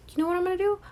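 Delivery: excited, rising question; manic idea. Retold or imitated. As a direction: pitch it up like a crazy plan. Doctor's manic plan.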